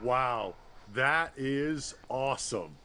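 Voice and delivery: awed. Real, not acted. Awed after launch.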